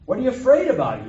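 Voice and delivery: loud high yell in a story. Acted. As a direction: bellow it as a startled question. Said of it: "he yelled out".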